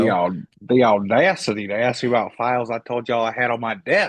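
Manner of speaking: lightly put-on Southern accent, indignant; mock Southern accent. Co-host mocking an official over files, put-on Southern accent. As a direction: imitate an affronted Southerner's accent. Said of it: "what is that fucking accent".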